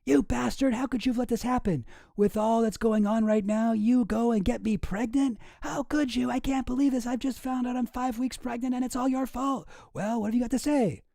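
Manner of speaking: high-pitched tirade, no real shout; mock screaming. Pregnant politician berating her husband on the phone, mock screaming. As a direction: rant at a pitch, hammed-up outrage. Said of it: "immediately starts screaming".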